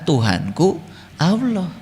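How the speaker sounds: barely bothering to say it; offhand mumbled claim. Retold or imitated. Preacher mocks people who say God's name without knowing Him, softly and slowly.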